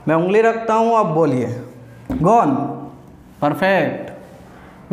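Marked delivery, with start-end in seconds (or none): 2.2-2.5 prompting word, clipped and louder; teacher's cue. Shown as a demonstration. Teacher cueing students with a word, firm prompt. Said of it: "मैं बोल रहा हूँ gone". 3.4-4.9 slow, soft, low answer; student's answer. Shown as a demonstration. Teacher voicing the class's reply, slow and soft. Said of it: "आप बोले perfect".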